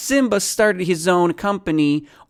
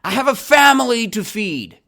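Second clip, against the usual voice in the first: yelling; 8 semitones higher, 4 dB louder than usual. Acted. Teacher re-enacts the kangaroo's hungry plea for students, yelling. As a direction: call it out high and forcefully. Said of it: "And he yelled".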